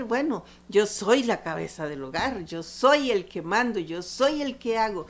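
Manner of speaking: lightly acted self-important boast; mildly puffed-up imitation of a bossy husband; mock boasting husband. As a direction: lean on each "soy", playing the boss. Mocks husbands boasting of being head.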